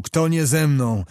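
commanding outcry, the last words slowed and dropped; a prince crying out his ultimatum; hammered-out challenge to the officers. Acted. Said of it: "a po chwili zakrzyknął".

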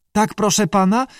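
high-pitched creature reply; squawky salamander. A narrator's reading. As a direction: answer in a polite little squawk. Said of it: "zaskrzeczała". (skrzekliwy głos salamandry)

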